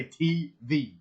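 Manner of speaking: T V pronounced as two declared letters; mock a friend's deliberate T V; T, then V, stated separately; like a statement. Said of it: "You say it like a statement".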